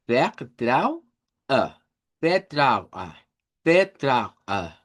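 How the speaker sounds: "vertraue" with the stress on "trau"; German vertraue. Shown as a demonstration. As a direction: pronounce "vertraue" as fer-TRAU-e. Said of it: "la sílaba tónica". ("vertraue" con acento en trau)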